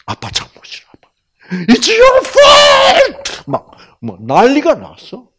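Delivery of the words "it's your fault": high, loud, very slow wail; little daughter wailing at dad; crying child blaming dad. Retold or imitated. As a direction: howl the blame like a sobbing child. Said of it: "울면서 막".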